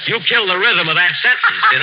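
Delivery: said through a laugh. Real, not acted. Bandleader botched his line, laughing. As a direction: laugh out the jab at him.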